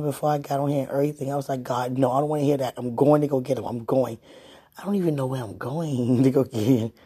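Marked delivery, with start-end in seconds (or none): 1.6-6.9 frantic. Retold or imitated. Retold frantic rush.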